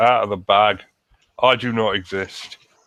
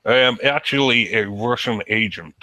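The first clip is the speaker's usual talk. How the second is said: barely-there mock Russian accent; a failed try at a Russian accent; weak Russian accent. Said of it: "Is that your Russian accent? 'Cause it didn't come across very well".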